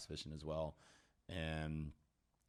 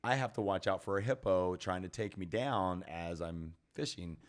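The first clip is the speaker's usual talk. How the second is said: mock alarm; 2 semitones higher, 6 dB louder than usual.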